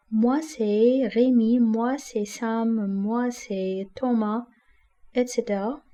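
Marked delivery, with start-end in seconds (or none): 0.1-4.4 slow, carefully spaced example answers; slow classroom demonstration; slow model phrases. Shown as a demonstration. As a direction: say each name slowly for the learners. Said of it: "teacher models example answers".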